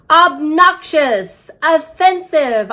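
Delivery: high, slow little shout; yelled. Acted. Hamster yelling O words at the class, high and slow. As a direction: squeak out each word as loud as a tiny hamster can. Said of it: "I yelled".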